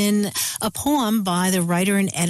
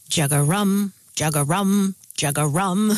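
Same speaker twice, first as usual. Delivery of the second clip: bullfrog call; 4 semitones lower than usual. Retold or imitated. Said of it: "they say".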